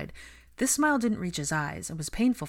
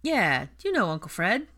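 put-on cheery, louder, child-directed; bright; 3 semitones higher, 6 dB louder than usual. A narrator's reading. Ginny covers for Fred to a worried boy, brightly. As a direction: play it cheerful for the child's sake. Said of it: "Ginny said brightly".

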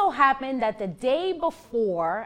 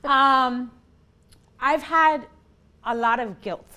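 snotty crying; 2 semitones higher, 3 dB louder than usual. Real, not acted. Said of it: "now I'm crying, I ugly cry".

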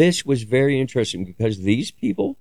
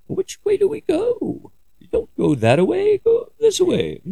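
much higher, slow little worm voice; inchworm impression. Quoting the movie inchworm with a much higher slow voice. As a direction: squeak it out like a tiny worm from a movie. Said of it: "purple inchworm with a mohawk".

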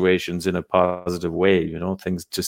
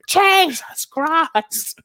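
drawn-out scared gasp; much slower than usual. Retold or imitated. Panicked friends at the window.

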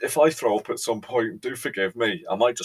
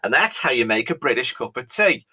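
mock serious; 4 semitones higher, 5 dB louder than usual. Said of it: "with all seriousness".

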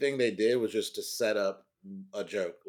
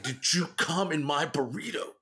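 lightly raised, suspicious quote; imitating a suspicious roommate's question; mock accusation; 6 semitones higher than usual. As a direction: accuse him, half serious. Quoting the burrito accusation.

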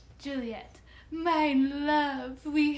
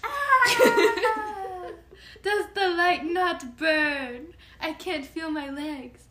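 dramatic pained Juliet; 4 semitones higher, 6 dB louder, slower than usual. Acted. Juliet falls from the sky.

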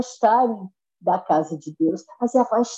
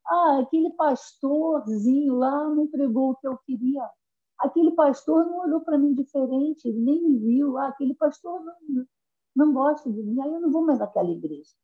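raised, whiny mock complaint; mocking a sulking churchgoer; 5 semitones higher, 3 dB quieter than usual. Preacher mimics a member sulking about the pastor, mild whine. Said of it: "um espírito de Jezabel falou ao seu ouvido".

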